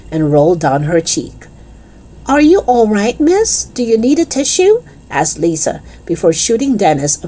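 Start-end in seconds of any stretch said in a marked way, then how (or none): 2.3-4.8 high-pitched, anxious pupil voice; concerned schoolgirl. Acted. Pupil checking on tearful teacher, high and concerned. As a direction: ask with high, rising concern.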